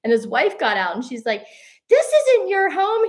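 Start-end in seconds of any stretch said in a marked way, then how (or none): 1.9-3.0 high, loud, slow mock protest; indignant retort. Tourist's wife arguing back at him, mock indignation. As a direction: imitate an indignant woman, stretching the words.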